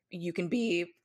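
cracking voice from a cold. Real, not acted. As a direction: voice breaks mid-phrase. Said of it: "oh, my voice just cracked".

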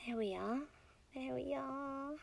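soft, hushed comfort; gentle soothing. Acted. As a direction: settle them with a tender hush. Soothing partner as feelings come.

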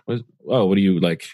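teasing his friend about dictating texts; incredulous questions. Retold or imitated. Retelling how he teased Drew over voice texting, incredulous. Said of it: "I was like".

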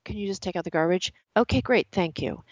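mock-polite, clipped request and thank you; hostile politeness. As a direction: ask nicely but let the irritation leak. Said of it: "that sounded hostile".

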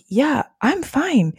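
breezy, dismissive sister. Retold or imitated. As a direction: shrug her off lightly. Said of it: "she's like".

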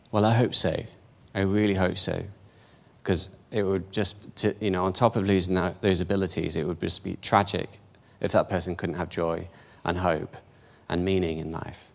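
softly grave and subdued; sombre, heartfelt. Real, not acted. Sad story of friend losing abilities.

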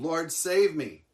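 imitating a desperate cry; retold cry for help. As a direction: call out slowly for rescue, lightly acted. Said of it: "he cried out".

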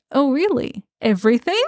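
lightly teasing retold doubt; mock skeptical. Podcaster voicing Dora doubting Elias tried it all, mock skeptical. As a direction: imitate her pointed questioning.

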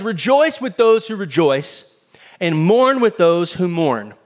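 slow, weighty verse reading; scripture reading. Acted. Preacher reciting Romans to congregation, slow and solemn. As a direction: let each word of the verse land slowly. Quotes Romans aloud slowly.

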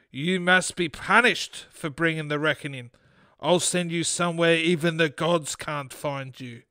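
understated, menacing curse; contained rage. Acted. Gypsy woman turns on Fred, understated rage. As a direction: pronounce the punishment with mild fury. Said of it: "sorrow turned to rage".

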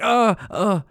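short high-pitched stammered grunts; mock startled grunts. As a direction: imitate being caught out, wordlessly. Reacts as doctor touches his nose.

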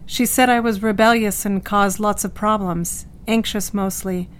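evenly recounted, with little feeling; placid indifference. Acted. Patient recalling life before surgery, placid and indifferent. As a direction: recall old troubles as if untroubled. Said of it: "Dot presents a placidity and indifference".

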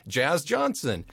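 slow, laughing "Jazz Johnson" as it sinks in; laughing realization of the dog's full name; amused realization. Retold or imitated. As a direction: repeat the name amused and amazed. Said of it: "I'm like".

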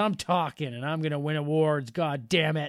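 lightly put-on Cajun voice; mock Cajun accent. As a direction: play at a Cajun movie character. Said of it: "have a little bit of a Cajun accent".

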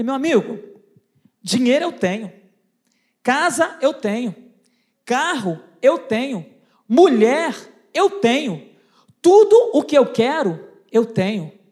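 slow, low, emphatic list; acted boasting. Big man telling the salesman he has everything, boastful. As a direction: let each possession land with weight, self-satisfied.

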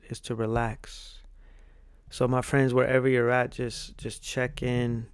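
calm them down gently. Acted. Leads a relaxation exercise.

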